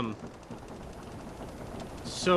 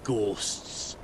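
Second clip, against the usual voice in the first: dismissive; slower than usual. Acted. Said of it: "he rolls his eyes at you".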